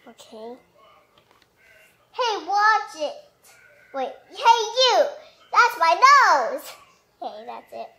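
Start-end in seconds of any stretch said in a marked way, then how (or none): 2.1-6.6 mock indignant. Character annoyed.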